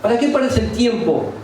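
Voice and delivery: high, drawn-out naysayer voice; discouraging naysayer. Acted. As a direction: mimic people talking you out of it, slowly. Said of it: "va a haber gente que te va a decir".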